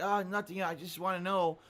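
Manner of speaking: put-on groggy drugged girlfriend voice; slurred, half-asleep imitation; sedated. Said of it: "This is the Leanna drugged voice".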